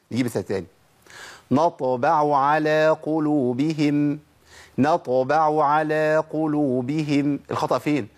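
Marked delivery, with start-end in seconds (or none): 1.5-7.4 تلاوة بطيئة لـ"نطبع على قلوبهم"; رتل الآية بتأنٍ; slow recitation. Shown as a demonstration. (تلاوة مرتلة)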